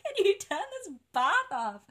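high, loud plea for help; flustered, rising shout; retold frantic call.

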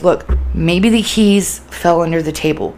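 measured, calm suggestion; soothing. Shown as a demonstration. Coaching how to talk to a manic person, soothing calm voice. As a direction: gently offer a possible answer, keeping steady. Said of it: "be soothing".

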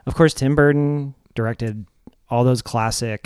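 slow, subdued trailing delivery; sad-sounding. Real, not acted. Host listing Tim Burton's films to co-host, oddly sad. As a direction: let it sink into an unintended downcast tone. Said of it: "why do you sound so sad?".

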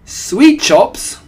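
high, very loud question; startled followers' squeal; astonished echo. A narrator's reading. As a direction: shriek it back in disbelief.

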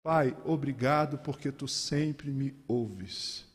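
oração calma e pausada, sem alarde; oração simples. Acted. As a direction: fale com o Pai devagar, com simplicidade. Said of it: "simplesmente diz". (oração simples e serena)

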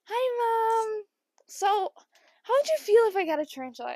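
put-on high, innocent little-kid ask; butter mom up before the reveal; a high, fast, wheedling ask; innocent sweet voice.

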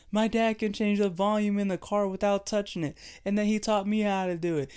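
put-on a boy bragging about his dad; bragging kid. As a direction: show off like a proud little boy.

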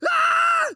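sudden high loud mock yell of frustration; stressed yell. Boss yelling from his office, hammed-up frustrated cry. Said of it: "you hear him yell".

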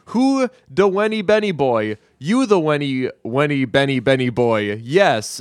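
put-on aunt cooing baby talk at her little nephew. Monica baby-talking to nephew.

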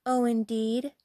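pert, questioning comeback; ill-mannered retort. Acted. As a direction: answer back rudely. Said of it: "replied the ill-mannered girl".

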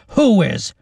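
high, loud demand; shouted question. A narrator's reading. Captain questioning Lacey over the rising fire, urgent shout. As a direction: yell it over the flames. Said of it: "he shouted over the rising fire".

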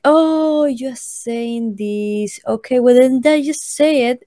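mock "oh, I get it" voice; retold realization. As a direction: act out their sudden catching on. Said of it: "they were like".

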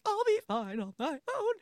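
high, wailing heroine imitation; mock wounded. Heroine leaves on her own, mock wounded wail. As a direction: put on a high, self-pitying whimper.

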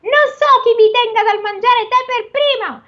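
high, strained ogre voice. Acted. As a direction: growl it like a storybook ogre. Ogre voice reading Tom Thumb.

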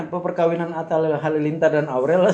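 bursts out laughing mid-sentence. Real, not acted. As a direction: chuckle through the words, then laugh. Laughs at the celebrity wedding.

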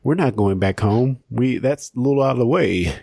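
lightly voiced cowboy. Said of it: "in my cowboy voice".

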